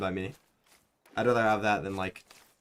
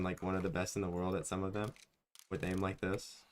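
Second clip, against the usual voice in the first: winded and breathless; short of breath from laughing; 6 dB quieter than usual. Real, not acted. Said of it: "Now I'm out of breath".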